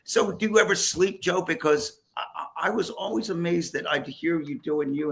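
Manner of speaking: ordinary talk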